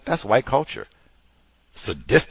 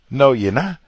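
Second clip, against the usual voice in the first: a louder, firmer mock no; louder mock refusal; 5 semitones higher, 5 dB louder than usual. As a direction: push the repeat harder, dismissive. Repeated louder.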